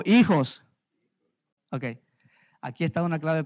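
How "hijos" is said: hijos called out loud for the church to repeat; call-and-response word. Real, not acted. Preacher calls hijos for the congregation to repeat it loudly. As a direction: ring out hijos so they echo it. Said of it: "diga conmigo".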